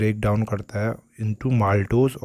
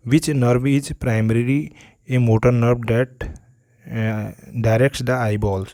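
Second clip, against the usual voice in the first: slow, drawn-out question reading; reading a quiz question; much slower than usual. Shown as a demonstration. Teacher to students, reading the exam question very slowly. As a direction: read the question out word by word.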